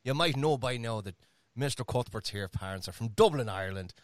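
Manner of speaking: put-on Dublin brogue, easy and chatty; Irish accent. Host telling fans of his parents from Dublin, Irish accent. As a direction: spin it out in an Irish lilt. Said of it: "talk in an Irish accent".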